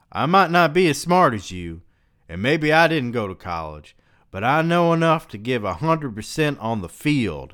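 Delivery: high, loud defensive shouting; hurt teammate shouting back; angry catcher. Acted. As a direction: jab a finger and yell it. Angry catcher confronts player.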